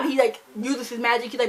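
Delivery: normal talking voice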